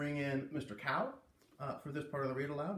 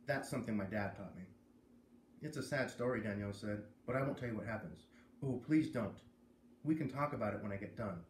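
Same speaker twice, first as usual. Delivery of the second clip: reading a chapter to the class; story read aloud; 2 semitones lower than usual. Acted. Teacher reads chapter to class.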